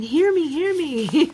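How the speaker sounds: high, slow, drawn-out plea; high pleading call. Retold or imitated. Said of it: "I was thinking".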